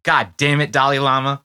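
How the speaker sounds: hammed-up disappointed outburst; mock exasperation. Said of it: "I was like".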